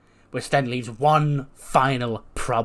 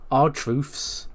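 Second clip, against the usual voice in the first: mocking echo; 2 semitones higher than usual. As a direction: sneer the phrase back as a question. The speaker mocks Carmelo's phrase.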